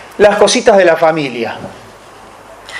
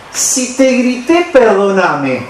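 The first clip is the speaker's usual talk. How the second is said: "Si te grité" arrastrado y con subida dudosa; un perdón a medias, desganado; perdón condicional; slower than usual. Shown as a demonstration. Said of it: "no me manden un perdón así". (perdón condicional, con duda fingida)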